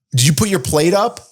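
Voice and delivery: lightly mock their phrase, lifting up at the end; imitating partner. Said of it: "like, the way you say things".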